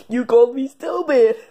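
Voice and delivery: high loud protest; hurt accusation. Acted. Worm accusing the kid of calling him stupid, loud and high. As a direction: cry out the accusation.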